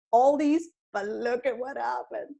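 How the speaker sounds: a lift of pride on these; upbeat. Retold or imitated. At the party, proudly pointing to what happened, mild lift. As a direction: show off the turnaround.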